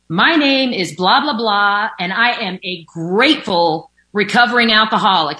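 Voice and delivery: imitating a cheerful woman at a meeting; happy newcomer share. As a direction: sound overjoyed to be there. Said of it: "she was like".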